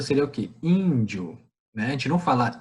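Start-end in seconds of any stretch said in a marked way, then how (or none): 0.6-1.4 "Índio" in two syllables, "dio" run together; pronúncia natural. Shown as a demonstration. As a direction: say "Índio" with stressed "Ín" and gliding "dio". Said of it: "A gente for fazer a pronúncia". ("Índio" em duas sílabas, natural)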